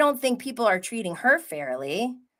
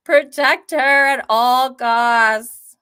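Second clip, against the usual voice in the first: emphatic vow; 5 semitones higher, 8 dB louder, much slower than usual. Real, not acted. Declaring loyalty to Riley.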